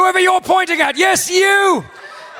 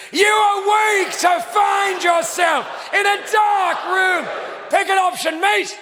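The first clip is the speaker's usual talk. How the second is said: game narrator. Acted.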